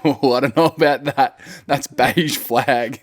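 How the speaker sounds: slow, lightly British, doubtful; a hint of a British tut; UK accent. Host judges a guest in a mock UK accent. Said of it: "I'm like".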